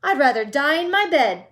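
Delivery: Grandma Josephine refusing loudly; shouted. A narrator's reading. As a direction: bellow the refusal. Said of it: "shouted Grandma Josephine".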